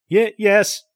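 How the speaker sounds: stammered, high and loud; frightened stutter under hypnosis; a breathless fearful yes; shaky agitated yes. Acted.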